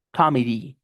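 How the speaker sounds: Committee said kamidi, long I ending; correct English pronunciation. Shown as a demonstration. Teacher repeats Committee for students. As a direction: Committee with ee at the end. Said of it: "con I al final".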